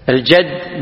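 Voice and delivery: "الجد" with an a, al-jadd; "الجد" pronounced jadd, not jidd; fatha on the jim. Shown as a demonstration. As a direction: say "الجد" as al-JAD. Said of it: "بفتح الجيم".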